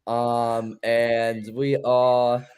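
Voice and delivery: halting put-on British accent. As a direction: labour through a careful mock-British pick. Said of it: "give a pick out in a British accent".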